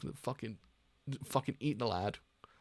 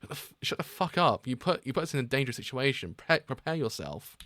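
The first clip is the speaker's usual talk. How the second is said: angry yell. Acted. Acted quarrel, furious partner.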